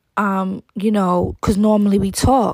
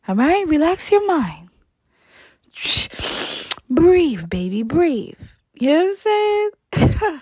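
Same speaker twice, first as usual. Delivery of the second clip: mock soothing; 4 semitones higher than usual. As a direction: pretend to soothe him while mocking. Mock-soothing the overreacting boyfriend.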